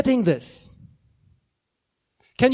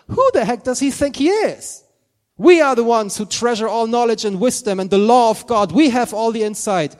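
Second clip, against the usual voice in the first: indignant Pharisees; 2 semitones higher, 7 dB louder than usual. Retold or imitated. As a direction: scoff at him, offended and loud. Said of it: "those religious Pharisees going".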